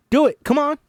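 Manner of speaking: high, loud urging; urging shout. Acted. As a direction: push her to join. Teacher urging Ruby.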